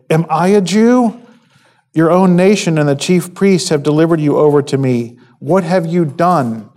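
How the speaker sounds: mild exasperation, pitch lifted on the questions; a touch of acted frustration in pointed questions; frustrated. Pilate questioning Jesus about his own nation, mildly frustrated. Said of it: "you can sense Pilate's frustration".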